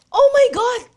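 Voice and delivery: high, loud gasp of disbelief; shocked exclamation. Acted. Mildred learning years have passed, loud shocked exclamation. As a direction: blurt it out stunned.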